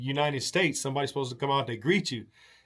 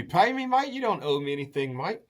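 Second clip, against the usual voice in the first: Aussie host; 3 semitones higher than usual. Retold or imitated. Aussie host telling the guest he owes nothing, breezy mock Aussie. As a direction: wave the money away, Aussie style. Australian host refusing payment.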